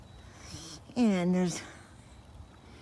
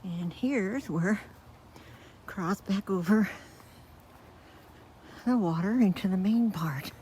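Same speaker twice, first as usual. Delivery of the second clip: winded from walking uphill; breathless, puffing between words; out of breath. Real, not acted. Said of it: "Sorry, I'm so out of breath".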